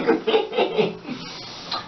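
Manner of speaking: airy giggle trailing off; real laugh at what you won't say; wheezy laugh. Real, not acted. Laughs at unfinished line.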